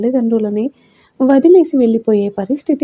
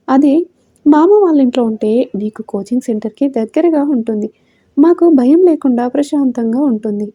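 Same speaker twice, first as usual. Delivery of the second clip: tenderly coaxing. Acted. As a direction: coax the daughter gently, lightly voiced. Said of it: "లాలనగా చెప్పింది లలిత". (కూతురిని బుజ్జగిస్తూ లాలనగా)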